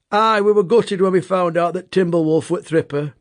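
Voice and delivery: lightly voiced Yorkshire taxi driver; a hint of a Yorkshire cabbie recalling his old workmate; thick Yorkshire accent. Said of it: "That's what he said in his thick accent".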